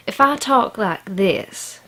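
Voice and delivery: slow, imitated Southern US redneck drawl; redneck accent. Shown as a demonstration. Showing viewers which accent gets judged stupid, redneck accent. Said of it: "people assume that I'm a stupid redneck".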